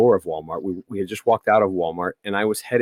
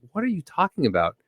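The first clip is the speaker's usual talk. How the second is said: incredulous retort; 7 semitones higher, 4 dB quieter, faster than usual. Retold or imitated. Retold argument with Karen.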